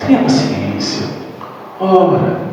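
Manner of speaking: soft, gentle mentor's advice; a hint of a gentle mentor counselling; gentle spirit voice. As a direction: speak like a kindly spirit guide. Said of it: "A espiritualidade vem falar com a gente assim".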